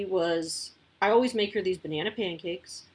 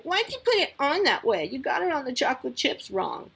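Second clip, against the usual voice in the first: high, louder whiny complaint; sassy bratty kid; 6 semitones higher, 4 dB louder than usual. Retold or imitated. Mom imitating Pippa complaining about her pancake, bratty whine. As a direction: mimic a bratty daughter picking at breakfast. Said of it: "goes into sassy bratty mode".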